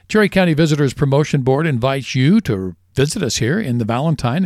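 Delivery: upbeat radio sponsor read. Real, not acted. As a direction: sell it like a local radio host. Reads a sponsor ad.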